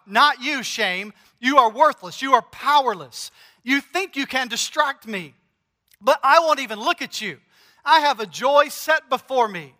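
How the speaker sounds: scorn shame as worthless, voice building; preacher voicing Jesus rebuking shame. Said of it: "Jesus spoke to shame like this".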